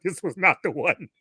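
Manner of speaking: retold in a soft undertone; hushed dread. Husband knowing trouble is coming, retold in a hushed voice.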